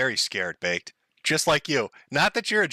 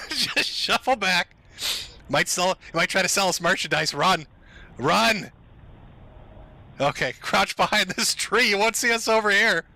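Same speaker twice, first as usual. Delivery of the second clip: mock cop whispering; 4 semitones higher than usual. Voicing cops in footage.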